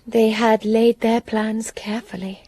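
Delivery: hushed, ominous telling; whispered narration. Acted. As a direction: lean in and whisper it.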